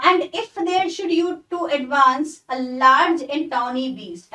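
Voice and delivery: slow, deliberate recitation of the line; poem reading. Shown as a demonstration. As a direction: read the verse slowly, word by word. Reads next poem lines. (धीमे-धीमे कविता पढ़ना)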